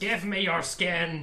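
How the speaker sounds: slow creepy demand, a laugh under it; hungry creature. Acted. Monster demanding Philippe's skin, slow creepy croon.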